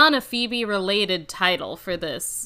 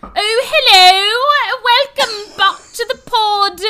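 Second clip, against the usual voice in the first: much higher, slow hammed-up posh greeting; fake posh accent; 10 semitones higher, 7 dB louder, slower than usual. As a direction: play an annoying returning traveller. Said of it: "You sound like Missus Doubtfire".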